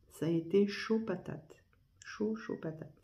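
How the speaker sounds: breathy whispered aside; whispering. Real, not acted. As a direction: drop to a whisper for emphasis. Repeats phrase, then whispers it.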